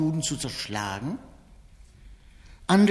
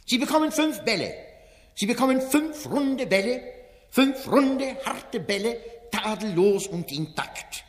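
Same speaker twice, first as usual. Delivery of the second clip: Wenzel Wondrak, fairground barker; 3 semitones higher than usual. Acted. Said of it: "steht der Ausrufer Wenzel Wondrak".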